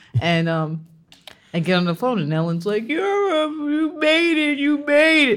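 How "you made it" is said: mock-drunk happy crying, higher, much slower. Recalling a phone call from Ellen, imitating drunk, happily crying Ellen. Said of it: "Very drunk".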